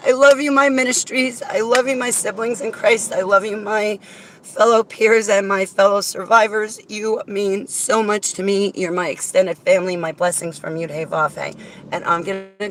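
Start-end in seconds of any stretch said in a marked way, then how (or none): 0.1-8.7 near tears. Real, not acted. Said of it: "I'm gonna start crying".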